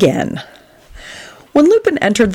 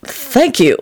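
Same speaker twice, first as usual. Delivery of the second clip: light, higher-pitched thanks; cheerful; 6 semitones higher than usual. A narrator's reading. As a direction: answer with mild cheer. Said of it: "Lupin responded cheerfully".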